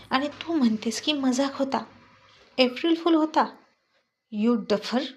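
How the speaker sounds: agitated, rising scolding; upset scolding. Acted. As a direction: scold her, shaken and upset. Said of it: "आर्यनला आता खूप tension आलं होतं". (घाबरून चिडलेला, रागावून बोलणे)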